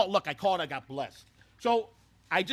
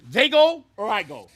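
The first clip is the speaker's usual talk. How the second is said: ultimatum; 3 semitones higher, 8 dB louder, slower than usual. Retold or imitated. Manager's ultimatum to the owner.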